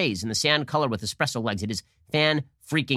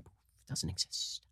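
whispered slowly; mock whisper; 8 semitones lower, 16 dB quieter, much slower than usual. Host mocking Democrats' denial, whispered slowly. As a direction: hush it like a secret.

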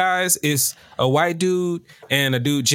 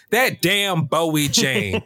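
imitating Felicia; 5 semitones higher, much slower than usual. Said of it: "compilation of Felicia saying".

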